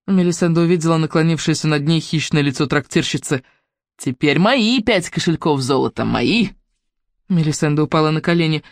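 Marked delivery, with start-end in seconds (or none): 4.0-6.5 greedy innkeeper. Acted. Greedy innkeeper claims reward.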